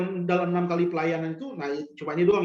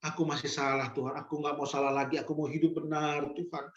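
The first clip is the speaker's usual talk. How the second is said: tearful prayer; 4 dB quieter than usual. Acted. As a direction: plead humbly with God, as if near tears. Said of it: "Kita akan menangis".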